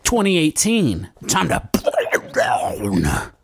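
big drawn-out hype voice; hyped up. Acted. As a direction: pump it up like an announcer. Hyped intro, burning it down.

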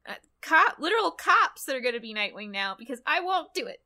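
hammed-up defiant hero; Rick. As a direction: declare it with exaggerated stubbornness. Still mocking Rick's speech.

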